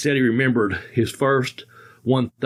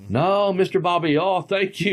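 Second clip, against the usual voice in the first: limo driver; 4 semitones higher than usual. Retold or imitated. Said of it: "I can't do an Indian accent".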